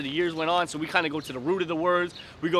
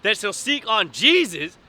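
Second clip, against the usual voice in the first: mock quoting; 3 semitones higher, 4 dB louder, slower than usual. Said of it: "when you quote John three sixteen".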